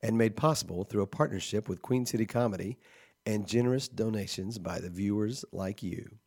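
measured podcast sign-off read; announcer outro read. Real, not acted. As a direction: read the credits like a public radio announcer. Reads the show's outro.

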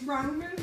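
ROMAN with a long O, like Rome; insistent accented ramen. Shown as a demonstration. Storyteller insisting on her own version, ROMAN with a long O. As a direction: insist on Roman with "roh" up front. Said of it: "It's Roman".

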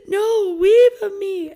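high, loud mock wail of a toddler; crying toddler. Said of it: "He was crying so hard".

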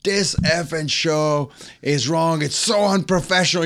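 retold angry screaming. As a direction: imitate a furious star, drawing the words out. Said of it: "He starts screaming at everybody".

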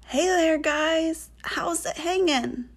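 a hint of a cool surfer toad, drawn out; lightly voiced toad. A narrator's reading. Toad surprises two girls by talking, lightly voiced easygoing hello.

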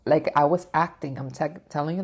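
ordinary talk, nothing marked

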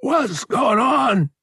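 very high, strained, drawn-out gasp; feeble gasp. A narrator's reading. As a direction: ask it slowly, high, as if winded. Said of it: "he gasped feebly".

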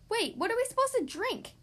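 high, plaintive dismay; dismayed Papa. Acted. Papa asking Mama about drinks, high plaintive dismay. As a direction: whine it in disbelief. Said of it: "asked Papa".

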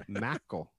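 "Mackle", with the first vowel flattened to "mack"; local Texas pronunciation. Retold or imitated. Imitating Texans saying the speaker's name, "Mackle" for Michael. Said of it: "people would pronounce my name".

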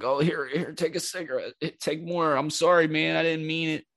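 high-pitched, imitated anxious apology; mock nervous pleading. Retells the scared man apologizing.

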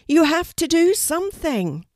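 high, loud plea; urgent shout. A narrator's reading. Ravens beg Kelty to rescue Poppy, urgent shout. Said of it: "the ravens shouted at Kelty together".

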